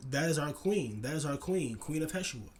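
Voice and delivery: excited insistence. Retold or imitated. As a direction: imitate an excited stranger insisting. Acting out stranger insisting on title.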